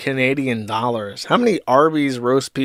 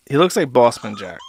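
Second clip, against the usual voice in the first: laughing; 2 semitones lower than usual. Real, not acted. Laughing comment.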